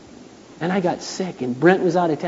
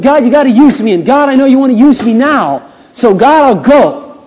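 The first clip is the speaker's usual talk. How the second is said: louder, higher pleading with God; urgent prayer; 7 semitones higher, 7 dB louder than usual. Retold or imitated. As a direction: call on God with rising urgency. Retold prayer, said aloud.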